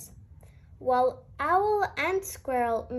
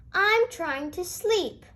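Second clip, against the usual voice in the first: grumpy roar; 6 semitones higher, 3 dB louder than usual. A narrator's reading. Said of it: "he roared".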